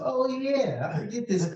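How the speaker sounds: high, airy voice for a sudden thought; forgetful inner voice. Retold or imitated. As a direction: play the forgetful self with a lifted pitch. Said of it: "mental flashes of".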